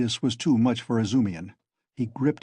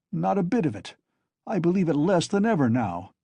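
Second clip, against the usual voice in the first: hasty cry; 5 semitones higher than usual. Acted. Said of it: "Zametov cried hastily".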